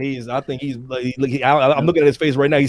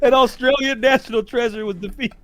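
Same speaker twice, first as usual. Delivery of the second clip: laughing mock lament; 2 semitones higher than usual. Real, not acted. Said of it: "An, an Austra".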